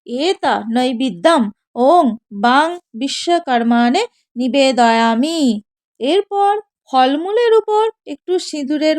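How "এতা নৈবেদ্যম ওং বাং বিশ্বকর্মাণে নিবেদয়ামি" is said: slow, measured Sanskrit chant, lower; mantra recitation. Shown as a demonstration. Priest showing worshippers how to say the mantra, slow chant. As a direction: intone it like a priest at puja. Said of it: "বলবেন".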